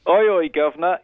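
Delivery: playful stock Cockney greeting; Cockney accent. Pretend. Guest answers the intern's impression, in joking Cockney. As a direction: play up the London street accent. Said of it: "I told him it was Cockney".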